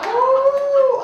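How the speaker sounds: loud, high surprised ooh. Real, not acted. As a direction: react with shock. Reaction to story.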